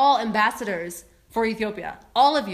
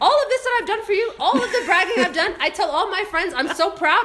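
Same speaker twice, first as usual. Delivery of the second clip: mock wounded parent; 5 semitones higher than usual. Mock guilt-trip to airline.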